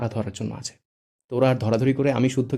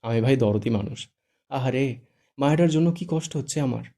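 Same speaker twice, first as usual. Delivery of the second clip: sly grin; 4 dB louder than usual. Acted. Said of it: "মিটিমিটি হেসে বলে".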